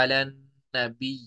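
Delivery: नबी held on a long ee-y ending; doubled ya at pause. Shown as a demonstration. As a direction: lean into the doubled y of नबी and stop, no vowel. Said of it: "तजदीद पर वक्फ करना".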